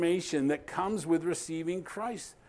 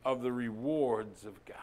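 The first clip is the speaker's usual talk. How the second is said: hushed whisper; 2 semitones lower than usual. Real, not acted. Preacher whispering the end of his point to listeners. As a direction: breathe "of the rewards of God" in a whisper. Sermon line drops to a hush.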